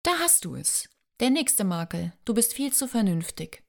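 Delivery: playful fake exasperation, pitch jumping up; mock sighing complaint. Joanna teases Carter about being too sensible, mock sighing. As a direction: complain with a theatrical sigh, teasing. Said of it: "Joanna seufzte gespielt".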